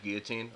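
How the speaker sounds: put-on "guillotine" as GEE-uh-teen; no L sound in "guillotine"; pronounced without L. Shown as a demonstration. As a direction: say "guillotine" with a silent L. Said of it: "type it phonetically".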